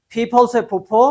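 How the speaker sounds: फीफल से फुफ्फो with a strong puffed फ; फीफल and फुफ्फो each with a strongly aspirated फ, drilled aloud; loud drill. Shown as a demonstration. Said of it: "ऊंची आवाज में". (फ को ज़ोर से फूंककर बोलें)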